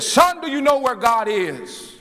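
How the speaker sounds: high, ringing preacher's demand; booming voice. Retold or imitated. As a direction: boom it out like an imitated stern minister. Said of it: "in a booming voice".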